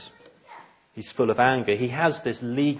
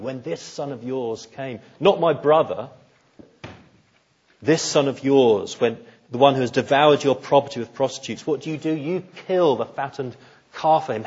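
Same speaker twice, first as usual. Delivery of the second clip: bitter resentful son. Retold or imitated. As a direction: spit out each charge at the father. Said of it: "you can hear the anger and the bitterness and the resentment".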